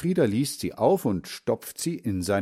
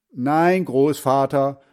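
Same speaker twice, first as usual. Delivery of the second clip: loud, higher "Nein"; calling out; 4 semitones higher, 7 dB louder, slower than usual. Acted. Boy shouting a correction to deaf grandfather. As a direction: call it loud so grandpa hears. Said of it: "ruft Hans Frieder".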